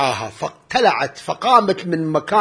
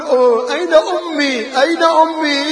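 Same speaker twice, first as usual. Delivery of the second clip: a hint of a small child calling for her mother, higher; lightly voiced little girl; 9 semitones higher, 4 dB louder than usual. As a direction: plead like a lost child, lightly acted. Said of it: "تقول". (صوت طفلة صغيرة تبحث عن أمها بلمسة خفيفة)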